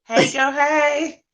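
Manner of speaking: laughing. Acted. Echoing the catchphrase laughing.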